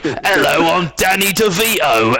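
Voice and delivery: high, slow put-on accent voice; mock a friend's one-size accent as Danny DeVito; friend's all-purpose accent. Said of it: "He's like".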